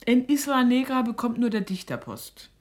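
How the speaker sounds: scornful outburst. Acted. Mother mocking the postman to her daughter, loud scorn. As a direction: snap it out with contempt.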